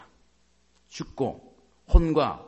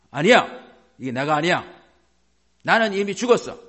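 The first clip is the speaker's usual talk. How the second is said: loud, emphatic refusal; forceful declaration; 3 semitones higher, 7 dB louder than usual. Shown as a demonstration. Believer refusing anger as not their own, forceful declaration. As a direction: fire it out like a battle cry.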